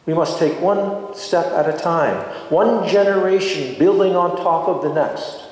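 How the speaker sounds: ordinary talk, nothing marked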